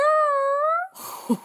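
giggling at own cheeky joke; high burst of laughter. Real, not acted.

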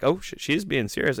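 soft, dropped-voice oh shit; quiet realization. Retold or imitated. Realizing the waitress means it, quiet aside. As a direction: mutter it under your breath in realization. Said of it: "And I was just like".

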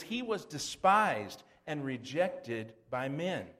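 slow, solemn scripture reading. Acted. Preacher reading Isaiah to the congregation, slow and solemn. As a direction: weigh each word of the verse.

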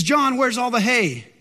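drawn-out mock holler; calling out. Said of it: "he yells out".

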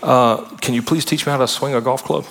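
butter up the pastor with a lilting voice; a hint of a fawning churchgoer; mock flatterer. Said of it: "it's flattery for selfish gain".

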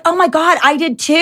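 high, gushing gossip voice; excited agreement. Retold or imitated. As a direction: gush in delighted agreement. Girl agreeing about Lacey.

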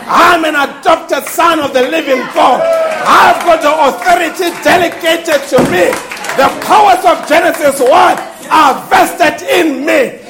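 forceful, mounting proclamation; triumphant preaching. Acted. Preacher voicing the prophet claiming delegated authority, forceful proclamation. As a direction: declare it with full authority.

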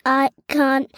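slow, even robot voice. Shown as a demonstration. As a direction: speak like a space robot, slowly. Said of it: "I can speak in a robot voice".

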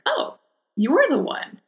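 high, slow, drawn-out delight; wife's delighted recognition. Retold or imitated. Customer's wife meeting the clerk, high slow delight. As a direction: savour each word like you finally found her. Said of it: "she's like".

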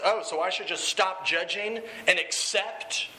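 acted incredulous comeback, drawn out; Jesse. Dealer answering the group leader, mildly mocking retort. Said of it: "then Jesse goes on and goes".

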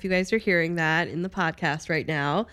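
blocked nose, stuffy; congested voice. Real, not acted. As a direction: speak with a stuffy head cold. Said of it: "I'm a little congested".

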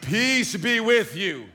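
slow, solemn mock-holy voice; lightly dramatic entrance; dramatic Jesus. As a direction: hold each word like smoke rising behind him. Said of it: "lots of music in this moment".

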